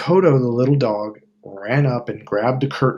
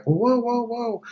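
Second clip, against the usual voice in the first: high calming whoa, fading off; calm her down like a spooked horse; soothing whoa; 11 semitones higher, slower than usual. Retold or imitated. Wizard calming upset Dorothy with high whoas. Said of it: "he's just like".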